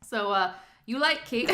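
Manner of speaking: laughing, lightly put-on Canadian accent; a playful, half-hearted go at sounding Canadian. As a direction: the speaker tries a Canadian accent for listeners. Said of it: "I'm gonna do my best Canadian accent".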